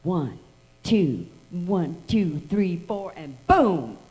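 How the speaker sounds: lightly voiced bandleader count-off, slowing; a hint of Jimmy counting the band in. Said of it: "and he does".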